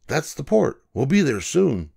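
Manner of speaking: a friendly cat greeting a frightened cub; Nemo the ship's cat. A narrator's reading.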